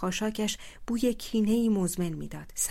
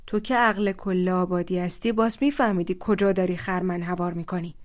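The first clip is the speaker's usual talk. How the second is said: angry taunt; 6 dB louder than usual. Acted. Asef taunts Aghel angrily.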